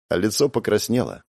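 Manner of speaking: usual speaking voice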